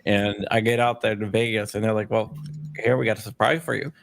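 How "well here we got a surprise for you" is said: usual speaking voice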